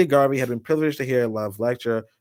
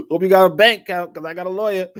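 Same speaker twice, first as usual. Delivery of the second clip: laughing mock threat; 6 semitones higher, 6 dB louder than usual. Joking threat to chat.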